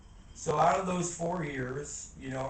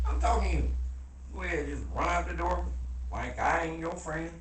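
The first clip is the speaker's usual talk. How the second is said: calling out; 2 semitones higher than usual. Real, not acted. Calls out to passing friend.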